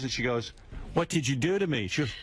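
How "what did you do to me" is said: mildly mocked bewilderment; confused. Man imitates woman waking up confused in the film, confused. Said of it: "she's all confused".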